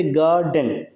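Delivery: गार्डन with गार held long, डन short; stressed first syllable. Shown as a demonstration. Teacher showing a trochee to students, गार्डन stressed on गार. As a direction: lean on गार in गार्डन, then release डन. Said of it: "गार जो है ये long level है".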